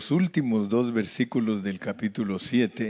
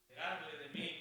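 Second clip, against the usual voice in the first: mournful lament; 6 semitones higher, 19 dB quieter, much faster than usual. Acted. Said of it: "Eso ya suena así mejor".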